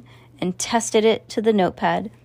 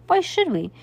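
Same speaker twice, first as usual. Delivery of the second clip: cheeky clown; 6 semitones higher than usual. Acted. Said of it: "agreed Maury".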